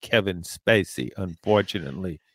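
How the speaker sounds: put-on genteel Southern accent. Shown as a demonstration. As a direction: lay on a proud Southern accent. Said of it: "to use my Southern accent".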